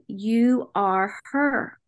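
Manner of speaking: slow, measured reassurance at an even level; calm, gentle voice. Retold or imitated. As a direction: imitate a calm inner voice, drawing it out. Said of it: "And it was calm".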